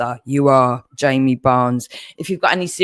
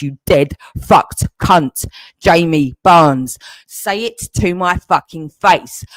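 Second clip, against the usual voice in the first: furious threat; 4 dB louder than usual. Real, not acted.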